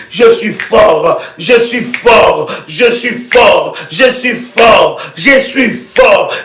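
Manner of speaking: slow, weighty repeated declaration; declaring with force. Shown as a demonstration. Preacher declaring strength over himself, slow and weighty. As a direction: pound out each je suis fort. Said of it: "Et je déclare dans mon esprit".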